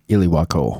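"Iliwako" in four syllables, ill-ee-WAH-ko; local joke pronunciation. Shown as a demonstration. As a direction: say "Iliwako" with an extra "ee" after the L. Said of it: "in Oregon, we call it".

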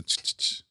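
repeated hushed "ch" noises; imitated film sound. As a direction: mimic a rhythmic hissing sound effect.

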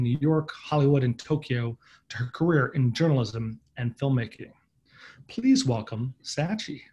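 measured, scripted episode introduction; podcast intro read. Real, not acted. Host introduces the episode to listeners, scripted intro read. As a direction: read it as a polished show opener. Host reads guest biography.

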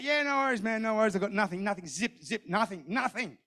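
quiet, fast-repeating aside to oneself; softly voiced private thought; anxious inner thought. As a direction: keep the panic under your breath. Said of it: "I thought".

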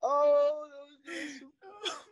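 laughing. Real, not acted. Right after big laughter.

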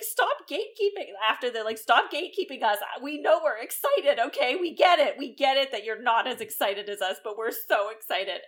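mock excited nerds. Mocking the YouTubers defending their excitement, high-pitched. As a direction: play the gushing fans, a little hammed-up. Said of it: "then they're like".

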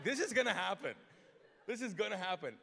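loud, high, lightly voiced zealous clerk; a hint of an over-the-top believer; extra determined clerk. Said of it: "She was extra".

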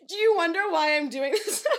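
mock confessional to the camera; reality tv confessional. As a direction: play it like a reality show interview. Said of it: "pretend like you're in a confessional".

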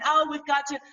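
mild mock sob-story voice; mocking imitation. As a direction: lightly mimic a weepy pundit. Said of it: "He's saying".

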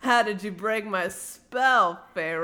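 slow, lightly hammed-up villain question; lightly play-acted accusation; Rhys. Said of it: "Rhys plays along and he's like".

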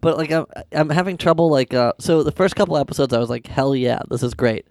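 sick, blocked-nose voice; stuffy nose. Real, not acted. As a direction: talk through a head cold. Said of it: "Sorry, I'm sick".

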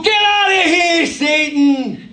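mock New York Jewish accent, high and loud, slow. Preacher imitating Jesus as a New York Jew, shouting. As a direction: bark it like a New Yorker. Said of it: "like a New York Jew".

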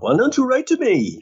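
high, plaintive mock grandma voice; hammed-up high-pitched grandmotherly complaint; nagging grandmother. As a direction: whine it like a grandmother wanting letters. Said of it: "asks those grandmother questions like".

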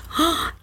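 quick mock gasp. Host setting up a joke about herself, mock gasp. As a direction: suck in a short, audible breath.

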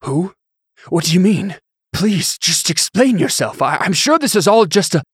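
high, loud, frightened babbling; panicked pleading. Acted. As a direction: plead for your life. Bishop pleads under the sword.

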